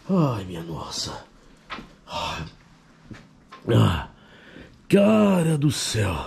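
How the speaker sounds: low, hushed, tense voice. Real, not acted. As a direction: speak low so the spirit hears. Hushed ghost-hunt spirit calling. (voz baixa e tensa)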